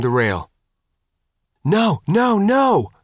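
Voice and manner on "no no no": high, urgent shout. A narrator's reading. Faith sees a man climbing the rail, shouting. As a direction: cry out in alarm, pitched high. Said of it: "Faith shouted".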